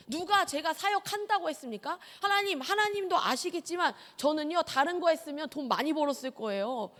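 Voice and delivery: put-on young preacher talking back to God, cocky; arrogant prayer. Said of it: "아주 교만하고 건방지게".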